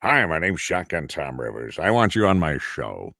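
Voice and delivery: big radio announcer voice. Retold or imitated. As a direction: put on a punchy old-school DJ delivery. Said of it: "this guy comes, he goes".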